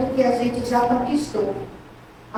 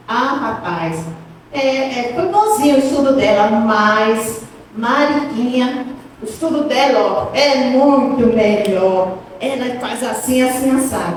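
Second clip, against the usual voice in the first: grudging jealous reply; 2 semitones lower than usual. Pretend. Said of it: "Começa a dizer".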